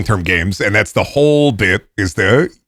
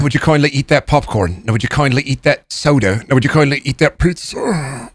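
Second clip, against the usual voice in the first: Atlas impression; 3 semitones higher than usual. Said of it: "Atlas impression".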